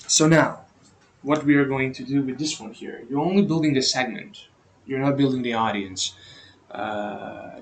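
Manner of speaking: talking around a lit cigarette; cigarette in mouth. Real, not acted. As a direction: speak with a cigarette between the lips. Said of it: "because I'm smoking a cigarette right now".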